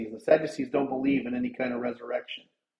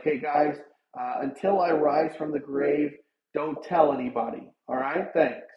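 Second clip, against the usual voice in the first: casual. Pretend. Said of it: "Maybe Jesus said this casually".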